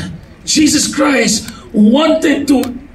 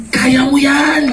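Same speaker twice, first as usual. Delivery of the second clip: preached encouragement; slower than usual. Shown as a demonstration. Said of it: "another term na sinasabing".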